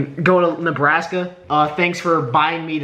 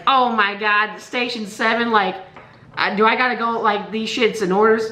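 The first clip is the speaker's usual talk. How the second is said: voice cracking; 3 semitones higher than usual. Acted. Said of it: "I'm doing this fucking voice crack on purpose".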